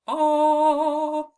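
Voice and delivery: loud held "Ah"; short o sound. Shown as a demonstration. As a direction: belt out a bright "Ah". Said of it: "making the ah sound".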